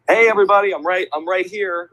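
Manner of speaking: re-enacted host hailing scattered fans; calling out to crowd. Host without a Jumbotron calls to softball crowd, hailing.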